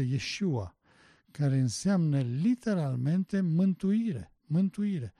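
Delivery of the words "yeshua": Yeshua said the Hebrew way; Hebrew pronunciation. Shown as a demonstration. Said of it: "se pronunță".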